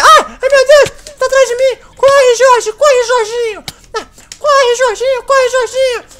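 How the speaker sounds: loud, panicked shouting; being chased. Pretend. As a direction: yell in mock panic while fleeing. Fugindo do palhaço no jogo. (fugindo em pânico, gritando)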